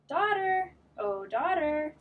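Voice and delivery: high sing-song call. Acted. Wife calling her daughter, high sing-song.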